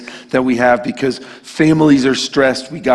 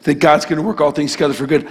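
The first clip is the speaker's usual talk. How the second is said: scornful mock question; faster than usual. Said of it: "how dare you come in here and say".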